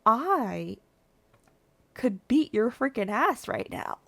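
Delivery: whispered threat; mock threat under breath. To the man in the elevator, a whispered threat. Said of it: "I'm like".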